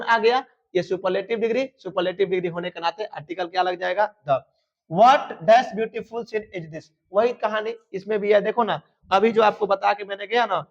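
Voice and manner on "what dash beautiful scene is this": very slow, every word spaced out; slow, deliberate classroom dictation; dictation pace. Shown as a demonstration. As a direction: read it out slowly for the class to copy. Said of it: "teacher dictating sentence".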